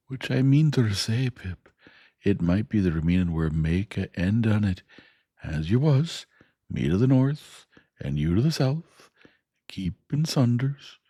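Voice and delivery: homely Joe spelling out the parting; Joe the blacksmith. Acted. Joe voiced in story.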